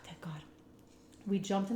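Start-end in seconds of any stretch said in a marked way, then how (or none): 0.0-0.4 much softer, under the breath relief; relieved hush. Retold or imitated. Teen relieved her mom bought the excuse, a much softer sigh of thanks. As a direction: breathe out your relief quietly.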